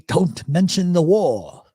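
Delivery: slow, mock-stern Fawlty line; John Cleese line. A hint of John Cleese warning about the war, slow. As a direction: lightly deliver Cleese's famous warning slowly. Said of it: "I am not John Cleese".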